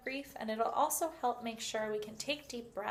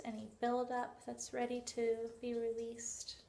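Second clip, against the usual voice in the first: guided visualisation; 4 dB quieter than usual. Shown as a demonstration.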